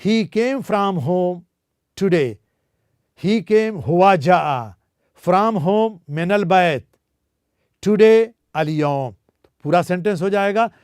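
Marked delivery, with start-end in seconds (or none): 0.1-2.3 very slow, word by word; slow motion. Shown as a demonstration. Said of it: "ज़रा मैं इसको slow motion में कह दूं". 3.2-9.1 slow motion. Shown as a demonstration. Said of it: "ज़रा मैं इसको स्लो मोशन में कह दूं".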